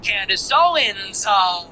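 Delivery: slow, drawn-out name with a theatrical pause; mocking her intro. Host mimicking how the commentator opens, slow and theatrical. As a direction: stretch the name, then hang. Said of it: "that's how she always talks".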